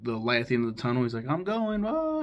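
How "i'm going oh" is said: mock dying old man, pitch climbing very high; comic old-man wail, swooping upward as he departs; senile old man. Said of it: "like he's a senile old man".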